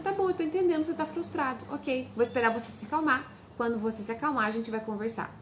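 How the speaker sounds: composed mother waiting out a tantrum; calm, understanding. Shown as a demonstration. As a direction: wait it out calmly, no pressure. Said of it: "agir como quem está entendendo".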